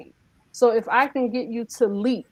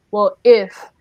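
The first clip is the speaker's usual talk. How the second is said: doubtful if; 9 dB louder than usual. Retold or imitated. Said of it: "a lot of people say".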